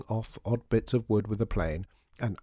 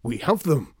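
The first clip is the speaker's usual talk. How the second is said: high, loud cry of triumph; triumphant cry; 5 semitones higher, 6 dB louder than usual. Acted. Shopkeeper has the customer's wish, triumphant cry. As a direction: cry it out victoriously. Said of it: "cried Mister M triumphantly".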